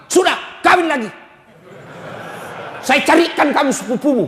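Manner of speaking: mock mother poisoning her son; berating mother-in-law. (mertua menghasut anaknya)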